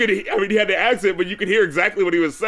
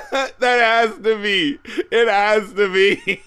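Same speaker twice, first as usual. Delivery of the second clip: slow, drawn-out words through laughter; laughing insistence; 4 semitones higher, slower than usual. Real, not acted. Host insists the coincidence was intentional, laughing. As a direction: insist slowly while laughing, a bit higher.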